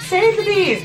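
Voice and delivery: high, loud squealed slogan; mock rallying cry. Joking aside about being all for bees, mock rallying cry. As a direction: squeal it out like a playful campaigner.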